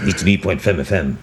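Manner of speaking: put-on a light Norwegian radio announcer accent, slowed; imitating Norwegian radio. DJ imitating Norwegian radio he heard in Oslo, light Norwegian accent. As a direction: mimic a Norwegian DJ reading the frequency. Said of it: "I would go like that".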